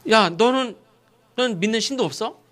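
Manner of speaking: acted reproach from the captain; rebuking. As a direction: scold a sleeper in disbelief. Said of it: "이방인한테 책망을 받아".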